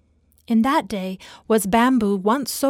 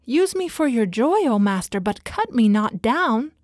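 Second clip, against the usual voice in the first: horrified pleading; 5 dB louder than usual. Acted. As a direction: beg in terror not to be cut down. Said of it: "A trembling of great horror shook Bamboo".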